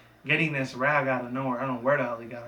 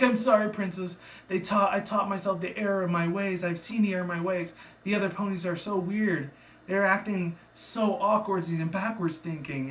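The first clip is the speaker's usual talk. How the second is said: higher-pitched mock apology; lightly voiced repentant pony; 6 semitones higher than usual. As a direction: lightly act out a confession. Voices locked-up pony apologizing to princess.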